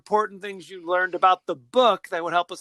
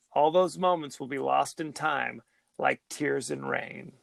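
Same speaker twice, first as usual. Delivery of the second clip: dramatic recitation; 3 semitones lower, 3 dB quieter than usual. Pretend. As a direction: recite it like a dying hero's last words. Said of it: "Say it just like, uh, Rutger would say it".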